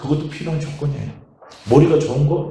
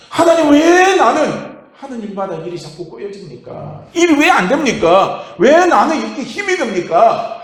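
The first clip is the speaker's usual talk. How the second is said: higher, slow pleading complaint to God; complaining prayer; 5 semitones higher, 3 dB louder, slower than usual. Retold or imitated. Believer retold grumbling to God in prayer, pleading. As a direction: whine it out to God, a touch hammed-up. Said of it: "하나님 앞에 원망을 했는데".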